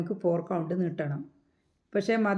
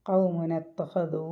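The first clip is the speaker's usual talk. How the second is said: ഖൗമുന ഇത്തഖദു chanted slowly, nun flowing straight into ഇത്തഖദു; unhurried tajweed chant; slow Quran recitation; much slower than usual. Shown as a demonstration. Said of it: "നൂനിന് ഫത്തയിൽ നിന്ന് താഴോട്ട് പോയാൽ മതി".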